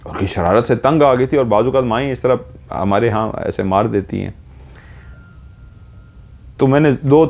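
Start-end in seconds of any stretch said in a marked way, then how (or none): none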